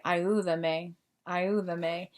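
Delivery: "Ayúdame" with the U gently emphasized, at an everyday level; stress on U. Shown as a demonstration. Teacher giving the right answer, "Ayúdame" stressed on the U. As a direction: lean lightly on the U in "Ayúdame". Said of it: "the U gets the stress".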